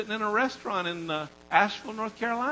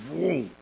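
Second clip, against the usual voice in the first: drawn-out "vroom" sound effect; mimicked whoosh of power hitting; imitated whoosh; 2 semitones lower than usual. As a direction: voice a rush of power as a long vroom. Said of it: "He's had his hand on me".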